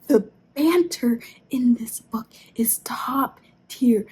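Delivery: breathless excited whisper; excited late-night whisper. Real, not acted. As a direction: hush it out, thrilled. Excited whispered book praise.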